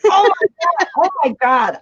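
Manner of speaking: high excited gasp of delight; surprised. Real, not acted. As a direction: squeal it, then settle down. Sees cool cells on camera.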